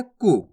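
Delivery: "कु" said short, not pulled out; short vowel. Shown as a demonstration. Teacher repeating the small u rule, "कु" short. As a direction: keep the u of "कु" brief. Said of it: "ज्यादा नहीं खींचना इसको".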